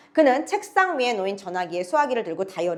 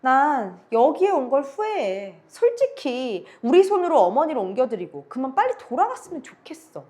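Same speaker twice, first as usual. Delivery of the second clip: negative, weary tone; 3 semitones higher than usual. Acted. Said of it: "부정적인 태도로 두 번째 차녀가 고개를 흔들면서".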